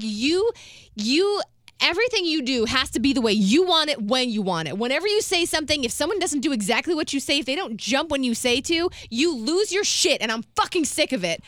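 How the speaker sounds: building fed-up outburst, retold; retold angry rant. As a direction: re-enact unloading years of grievances. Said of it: "I was, like, on a roll".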